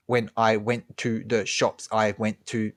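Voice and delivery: each word split off with a gap; staccato speech. Shown as a demonstration. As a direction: chop the words apart. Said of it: "we don't talk in staccato".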